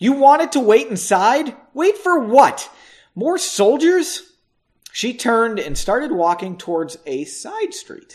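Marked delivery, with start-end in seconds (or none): 0.0-4.2 angry voice, raised and pitched up. Reading a story aloud, a woman confronts a man outside in a raised angry voice. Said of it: "she said in a raised voice".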